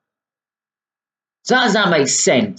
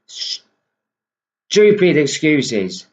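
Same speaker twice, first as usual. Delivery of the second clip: slow contemptuous drawl; much slower than usual. Real, not acted. Drawn out in contempt.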